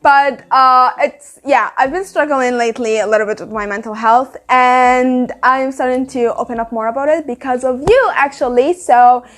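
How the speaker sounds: talking while chewing gum. Real, not acted. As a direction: gum in the mouth, chewing as she speaks. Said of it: "I have chewing gum in my mouth".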